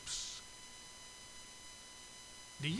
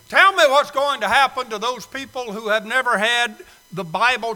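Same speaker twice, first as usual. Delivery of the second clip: loud, higher pleading to the Lord; loud plea to God; 4 semitones higher, 10 dB louder than usual. Acted. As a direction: cry out to God as the one on trial. Sinner pleading with God at judgment.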